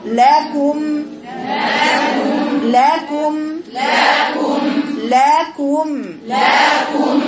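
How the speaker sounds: لكم chanted with a long humming م; ringing mim. Shown as a demonstration. Teacher making the girls hear the ringing mim. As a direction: let the م of لكم ring out, chanting. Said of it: "وشوفي رنة الميم".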